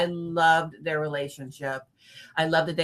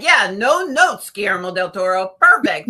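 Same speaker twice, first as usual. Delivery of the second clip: mock gushing praise; 2 semitones higher, 7 dB louder than usual. Imagined praise she'd give if uncritical.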